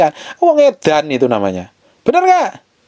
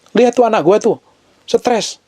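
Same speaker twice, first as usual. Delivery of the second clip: higher-pitched comic aside; God addressing an angel; 9 semitones higher than usual. Acted. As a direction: play God pointing out a hopeless child to an angel. (Tuhan mengadu ke malaikat, jenaka)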